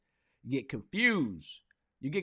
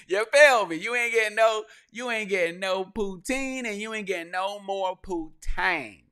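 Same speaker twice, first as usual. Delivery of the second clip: mock judge rant; 6 semitones higher, 7 dB louder than usual. Repeating judge's rant, laughing.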